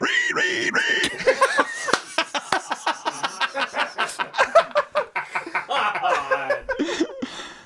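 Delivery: high, repeated mock screeches; mock squealing. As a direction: imitate her with shrieky "ree-ree-ree" noises. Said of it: "she's like".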